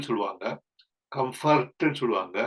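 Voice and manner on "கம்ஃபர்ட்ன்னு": "கம்ஃபர்ட்ன்னு" with a heavy second syllable, com-FART; wrong pronunciation. Shown as a demonstration. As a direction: mispronounce "கம்ஃபர்ட்ன்னு" with full FART sound. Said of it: "அது சரியான உச்சரிப்பு கிடையாது".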